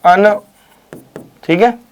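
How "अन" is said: अन as an isolated syllable; single syllable demo. Shown as a demonstration. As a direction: sound out अन alone, clearly. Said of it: "उसके बाद त्य". (अन को अलग से बोलकर)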